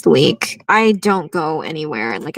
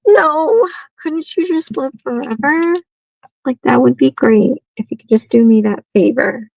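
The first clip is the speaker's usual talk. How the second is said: pleading; 5 semitones higher, 3 dB louder than usual. Retold or imitated. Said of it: "And I'm like".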